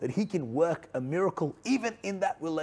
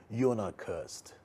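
slow soft reassurance, each word laid down gently; 5 semitones lower, 5 dB quieter than usual. Real, not acted. Preacher reassuring viewers they are not cursed, softly and slowly. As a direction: speak it gently and slowly, to comfort. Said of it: "I want to encourage you right now".

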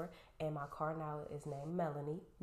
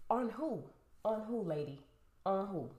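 exasperated retort; 4 semitones higher, 5 dB louder than usual. Retold or imitated. Retorting to the leasing lady.

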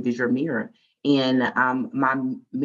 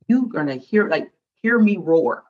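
mock roar; 2 semitones higher, 6 dB louder than usual. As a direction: belt it out like a lioness. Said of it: "I'm gonna speak my mind".

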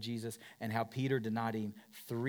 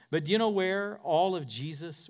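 normal talking voice

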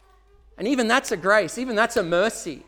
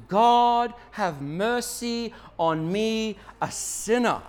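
humble plea; 3 semitones higher, much slower than usual. Acted. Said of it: "beat his chest and said".

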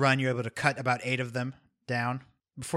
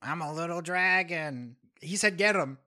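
put-on squeaky baby dragon; 4 semitones higher than usual. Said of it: "And I'm the dragon".

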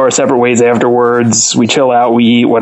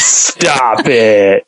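mock disbelief; 3 semitones lower than usual. Real, not acted. Reacting to host's ignorance.

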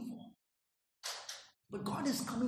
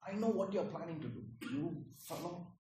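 accusing God; 4 semitones lower than usual. Acted. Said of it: "He's not coming like that".

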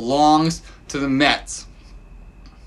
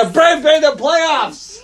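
put-on much higher, slow sing-song line for a child; child-directed prompt; 11 semitones higher, slower than usual. Father feeds his daughter the line, high and slow. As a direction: coax it out slowly for a kid to echo.

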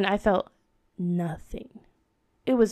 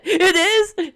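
surprised question; 8 semitones higher, 7 dB louder than usual. Retold or imitated. Dentist surprised.

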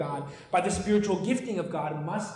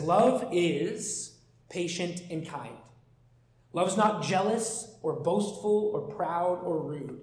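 scripture reading. Acted. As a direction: read each line of the passage deliberately, letting it land. Reading scripture aloud in sermon.

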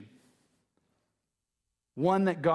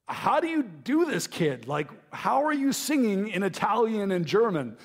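retold amazement at daughter, higher pitch; amazed; 6 semitones higher than usual. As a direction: marvel in a high voice, as if asking your kid. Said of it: "I was amazed".

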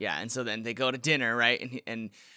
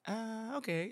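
put-on hesitant girl; 10 semitones higher, 9 dB quieter, much slower than usual. Quoting her hesitant reply.

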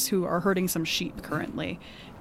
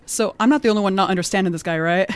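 laughing aside; 6 dB louder, faster than usual. Retold or imitated. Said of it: "I was like".

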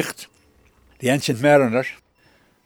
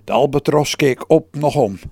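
solemn, louder storyteller voice; dramatic reading; 2 semitones higher, 6 dB louder than usual. Acted. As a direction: read the diary like a lonely epic. (plechtig voorgelezen dagboek)

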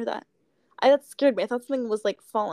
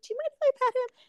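sweet asking voice; 13 semitones higher, much faster than usual. Retold or imitated. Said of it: "I was like".

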